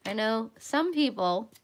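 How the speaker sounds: talking around a paintbrush in mouth; mouth full. Real, not acted. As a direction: speak with a brush between your lips. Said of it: "I have the paintbrush in my mouth".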